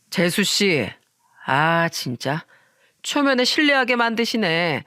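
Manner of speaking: lightly voiced tipsy man being rude; drunk friend. Drunk friend lecturing his friend's wife on makeup, condescending. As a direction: needle her like a boozy friend of her husband.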